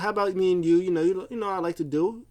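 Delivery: mildly acted-out happy enthusiasm; happy, retold. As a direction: propose it with cheerful eagerness. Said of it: "he starts getting happy".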